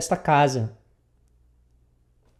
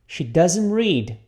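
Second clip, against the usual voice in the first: She doesn't read repeated, a bit slowly; slow model; much slower than usual. Shown as a demonstration. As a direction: model it steadily for repetition. (repetição modelo um pouco lenta)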